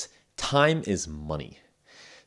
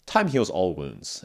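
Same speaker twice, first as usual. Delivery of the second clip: cold; slower than usual. Shown as a demonstration. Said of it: "it's gonna sound kinda cold".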